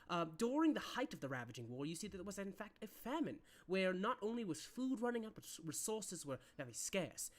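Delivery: lightly voiced rambling history teacher; a hint of a droning-on professor; rambling lecturer. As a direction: ramble through a lesson, with slight swells of emphasis. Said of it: "fully rambling about".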